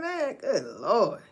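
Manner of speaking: slow whispered man, good Lord; whispered dismay. Real, not acted. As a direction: breathe it out in disbelief, slow. Dismay over the child.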